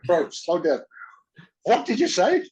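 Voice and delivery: loud and high, asking him to repeat; calling out over a strong accent, bewildered; retold baffled shout. Confused by Cockney stuntman's speech.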